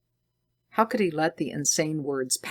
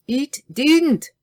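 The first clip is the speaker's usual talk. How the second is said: 1 angry denial; 11 semitones higher, 7 dB louder than usual. A narrator's reading. Enraged scientist denies it.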